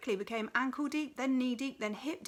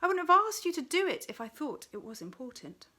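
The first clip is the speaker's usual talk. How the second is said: higher and louder angry retort; angry, raised villain voice; angry snarl; 6 semitones higher, 6 dB louder than usual. A narrator's reading. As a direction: keep snarling, scornful. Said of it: "he snarled angrily".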